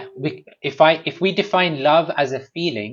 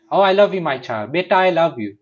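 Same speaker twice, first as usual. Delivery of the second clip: put-on higher, louder coo to a baby; doting parent; 5 semitones higher, 3 dB louder than usual.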